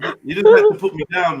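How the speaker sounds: squeaky high mock complaint; mock wounded whine. To friends who tease him, high squeaky whine. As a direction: whine it up high like a hurt kid.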